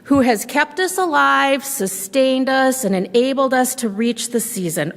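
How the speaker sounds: a bear mumbling a prayer, lightly voiced; muttered blessing. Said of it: "Old Bear muttered and growled".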